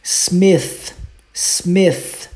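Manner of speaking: Smith ending with the tongue between the teeth, unvoiced TH. Shown as a demonstration. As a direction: stress the unvoiced TH at the end of Smith. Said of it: "Põe a língua entre os dentes".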